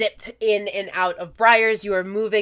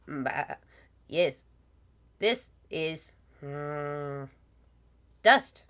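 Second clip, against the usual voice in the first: sheep-like pixie voice; 4 semitones lower, 4 dB quieter than usual. Acted. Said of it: "you hear them go".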